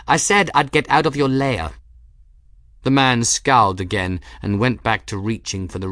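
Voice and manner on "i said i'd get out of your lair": higher, stress on said; hasty cover-up. A narrator's reading. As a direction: cover the slip innocently. Gwen covers her slip.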